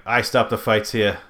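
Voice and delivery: put-on slow, light Boston accent; imitating a Boston prison guard, slowly. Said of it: "thick Boston accent".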